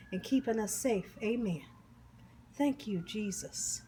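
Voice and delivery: soft, earnest table grace; prayer. Real, not acted. Cook saying grace before eating, soft earnest prayer. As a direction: bless the meal quietly and sincerely.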